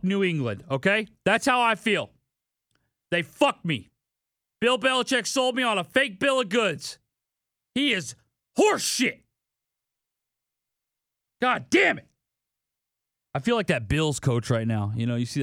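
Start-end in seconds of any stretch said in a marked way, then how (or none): 3.1-12.1 real frustration boiling over; angry outburst. Real, not acted. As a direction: vent your fury at the coach. Furious rant about losing bets.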